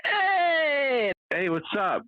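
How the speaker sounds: a big hammed-up Italian greeting; thick Italian accent. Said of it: "he's such a thick accent".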